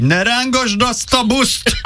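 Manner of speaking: high, stretched-out mock yell; retold shout. Imitating the sick friend at the Korean bus driver, mock shouting. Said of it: "a koreai sofőrrel magyarul kiabált".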